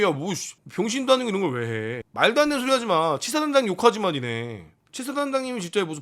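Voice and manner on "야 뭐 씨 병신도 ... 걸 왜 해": usual speaking voice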